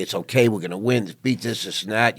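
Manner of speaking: lightly imitated parental pep talk; putting on upbeat. Parents reassuring their dying child, putting on upbeat. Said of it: "they have to be upbeat and say".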